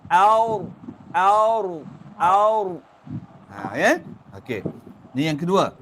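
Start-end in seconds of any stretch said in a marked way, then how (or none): 0.1-2.7 aur repeated with rounded lips, a bit louder; correct aur. Shown as a demonstration. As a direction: say aur, lips slightly pouted. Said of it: "Tapi kita baca A O R".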